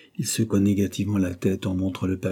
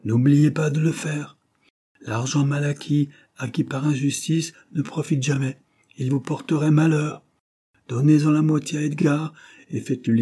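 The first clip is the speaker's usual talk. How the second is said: solemn; 5 semitones higher, 4 dB louder than usual. Acted. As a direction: lay down a final solemn charge. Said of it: "sa voix prit un accent solennel".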